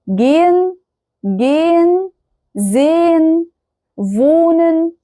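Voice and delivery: "gehen", "sehen", "wohnen" with long held vowels and no h; silent h. Shown as a demonstration. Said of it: "الها منطوقة أصلًا". ("gehen" و"sehen" و"wohnen" بمد الحرف من غير نطق الهاء)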